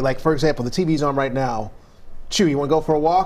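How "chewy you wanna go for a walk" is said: fast, eager call to a dog; excited dog call. Retold or imitated. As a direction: rev the dog up for a walk. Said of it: "Like, if I say".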